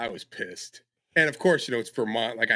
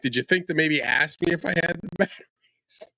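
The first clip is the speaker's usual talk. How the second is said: exasperated; 6 semitones higher than usual. Retold or imitated. Retold exasperation at son.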